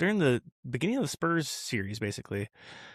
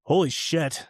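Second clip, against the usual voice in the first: put-on Australian accent; 4 semitones higher, slower than usual. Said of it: "in this, like, Australian accent".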